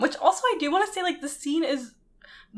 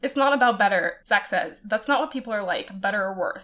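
story reading. Acted. Reads fanfic passage aloud.

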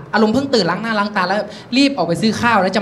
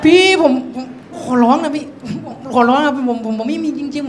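mock pitiful begging. Boy begging a policeman for pity, stammering plea. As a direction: plead in hammed-up self-pity. Begs policeman with sob story.

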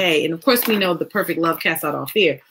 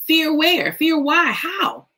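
incredulous; 8 semitones higher, much slower than usual. Real, not acted. Incredulous questions about fear.

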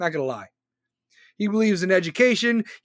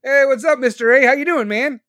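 calling out; 5 semitones higher, 7 dB louder than usual. Real, not acted. Greeting viewers joining stream.

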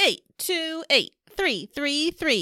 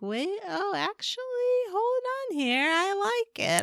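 delighted inner voice; 9 semitones higher than usual. Pretend.

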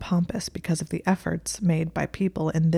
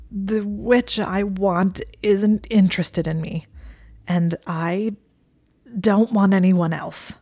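slow, reluctant confession squeezed out; dragged out gasping; 3 semitones higher, 4 dB louder, slower than usual. Acted. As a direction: let each word be pulled from you. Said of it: "gasped as though the answer were being dragged from him".

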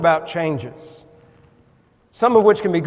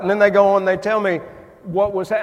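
ordinary talk, nothing marked

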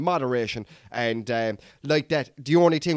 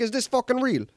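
disbelieving; 7 semitones higher than usual. Retold or imitated. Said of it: "I'm like".

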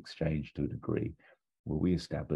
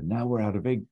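Basil voice; 7 semitones higher, 3 dB louder than usual. Retold or imitated. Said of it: "Basil sort of says".

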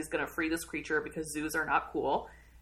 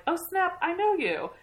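sudden recognition; 11 semitones higher than usual. Retold or imitated.

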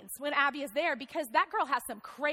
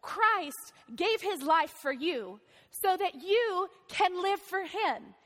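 apostle's appeal; slower than usual. Retold or imitated.

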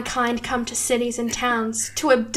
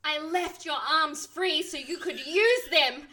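urgent, higher, demanding plea; commanding and desperate; 5 semitones higher, slower than usual. Acted. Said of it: "commanding and desperate tone".

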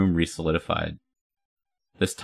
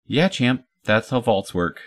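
higher-pitched mild sarcasm; sarcastic retort; 5 semitones higher than usual. Acted. Amy answers Hildy's obvious remark about the vault door, mildly sarcastic. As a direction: humour them with a higher, mocking lilt.

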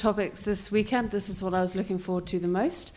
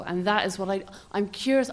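ordinary talk

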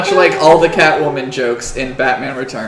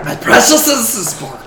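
Gollum; 4 semitones higher than usual. Acted. Goblin admits who his precious is, Gollum voice. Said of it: "I should do Gollum voice".

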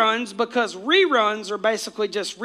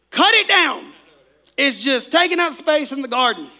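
stern owner; 2 semitones higher than usual. Acted. Owner telling the gardener he has waited three years, fed up. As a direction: make the owner fed up and demanding. Owner orders tree cut.

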